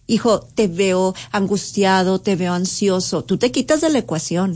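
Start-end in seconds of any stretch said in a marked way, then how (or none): 0.1-3.2 calmly name the son's worry; gentle observing tone. Shown as a demonstration. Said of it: "Y entonces puedes verlo a él". (voz pausada y comprensiva)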